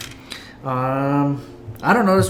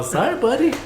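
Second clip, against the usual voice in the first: much higher, mock-sympathetic teasing; teasing friend; 4 semitones higher than usual. Passenger teases jealous friend, mock sympathy. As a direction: rub it in playfully. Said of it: "I'm all".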